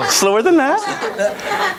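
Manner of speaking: drawn out very slowly, mock slow motion; slow-motion demo for the actor. Shown as a demonstration. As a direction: stretch every word out slowly.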